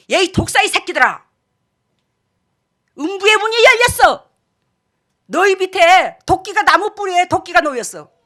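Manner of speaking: loud, thundering rebuke; Jesus in anger. Retold or imitated. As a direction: pronounce judgment in forceful bursts. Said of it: "그때의 예수님께서 그 화를 내실 때는".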